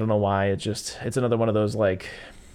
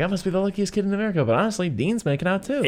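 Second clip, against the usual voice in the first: put-on giddy kid Hogarth; 9 semitones higher, faster than usual. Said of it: "he's like".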